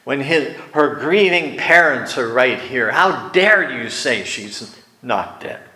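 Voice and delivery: a touch of scornful outrage; mocking anger. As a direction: scoff at him with laughter and anger. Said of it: "They mocked him".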